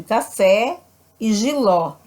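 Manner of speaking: "café", "giló" ending on open vowels. Shown as a demonstration. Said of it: "a vogal tem som aberto".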